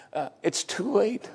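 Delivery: slow, high, hesitant doubter; mock doubter drawling "it's too late"; doubter's voice. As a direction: sigh it out like someone who has given up. Doubter's objection, then rebuttal.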